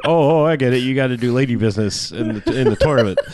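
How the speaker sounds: half-laughed naive agreement; eager dude. Retold or imitated. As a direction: play him as the clueless nice guy. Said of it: "And he's like".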